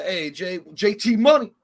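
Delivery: high, loud shout of a nickname; calling out. Retold or imitated. High school kids hail him with a high, loud shout. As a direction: holler across the hall. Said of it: "they'd be like".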